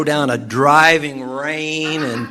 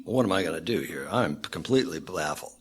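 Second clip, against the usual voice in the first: baffled; 7 semitones lower, 7 dB quieter, faster than usual. Acted. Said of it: "he is just".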